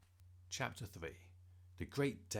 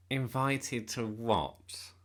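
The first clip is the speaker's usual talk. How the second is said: slow, loud drawled question, higher pitched; drawling; 4 semitones higher, 9 dB louder, much slower than usual. A narrator's reading. Newcomer butting into the boys' talk with a drawl. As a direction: draw the words out lazily. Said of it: "asked a drawling voice".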